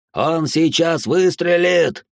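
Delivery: the fear spikes on выстрелит; rising panic. A narrator's reading. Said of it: "repeated in panic".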